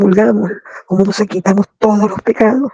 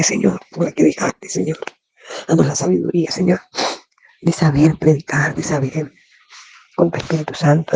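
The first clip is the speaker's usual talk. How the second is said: closing prayer. Acted. (oración devota y serena, cada vez más suave)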